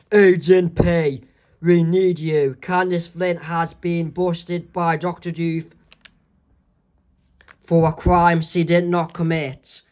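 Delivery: slow, loud, drawn-out commander voice; a hint of a stern chief giving orders, slowly; lightly voiced Major Monogram. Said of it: "Major Monogram says".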